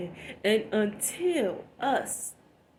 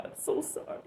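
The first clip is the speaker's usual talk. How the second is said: tearful apology; 5 dB quieter, faster than usual. Real, not acted. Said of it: "I'm snotting and crying".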